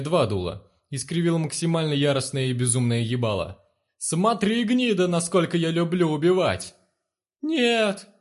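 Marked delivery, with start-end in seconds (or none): 4.0-6.7 much higher, louder manic snarl; crazed threat. A narrator's reading. Narrator threatens, crazed face. 7.4-8.1 much higher, louder cry of terror; guard screaming as the trigger is pulled; desperate scream. A narrator's reading. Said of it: "отчаянно завопил уёбок".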